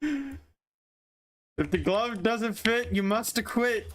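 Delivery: high, very slow mock lawyer plea; courtroom quote. Quoting the glove line to dodge blame, as a high slow mock lawyer. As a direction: intone it like a defence lawyer.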